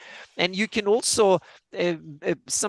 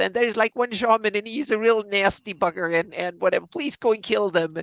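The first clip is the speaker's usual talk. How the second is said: goblin voice; 4 semitones higher than usual. Retold or imitated. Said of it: "and he said".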